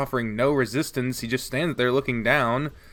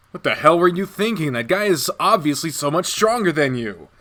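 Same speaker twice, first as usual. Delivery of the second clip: Shuichi scolds, louder; angry scolding; 5 semitones higher, 5 dB louder than usual. Acted. Shuichi scolds the protagonist for fighting a stronger guy, angry. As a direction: tell him off for being reckless.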